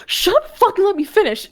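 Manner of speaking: high, laughing playful protest; laughing retort. Real, not acted. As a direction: laugh it out while telling him off. Laughing at cohost's teasing remark.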